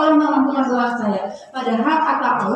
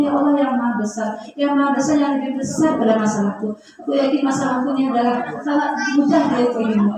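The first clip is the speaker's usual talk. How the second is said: gentle prayer; 2 semitones lower than usual. Shown as a demonstration. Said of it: "Maka itu suara kita lembut".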